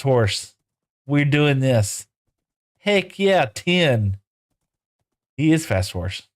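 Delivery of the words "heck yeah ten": excited. Real, not acted. Celebrating speed stat.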